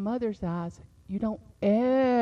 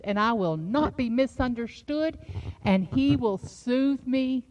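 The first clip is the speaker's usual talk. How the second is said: confident declaration; 3 semitones higher, 3 dB louder than usual. Acted. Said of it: "We need to be encouraged and say".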